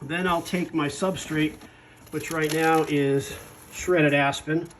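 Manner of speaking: talking through an N95 mask; muffled voice behind a face mask. Real, not acted. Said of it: "If I sound a little muffled".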